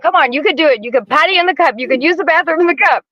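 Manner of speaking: put-on gently urging a kid to potty; coaxing dad. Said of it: "he would always be like".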